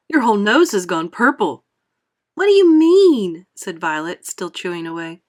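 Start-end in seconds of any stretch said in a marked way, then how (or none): 0.1-1.6 shout. A narrator's reading. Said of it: "shouted Mister Beauregard". 2.3-3.4 puzzled. A narrator's reading. Violet puzzled while chewing.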